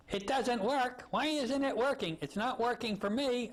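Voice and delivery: put-on high, yelling old Jewish lady accent; high-pitched Jewish-accent kvetch. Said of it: "yelling in this, uh, Jewish accent".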